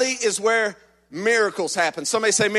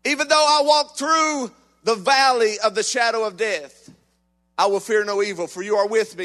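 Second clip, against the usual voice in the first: scripture recitation. Acted. Preacher reciting the psalm to the congregation, reverent and measured. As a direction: read it like a reverent prayer.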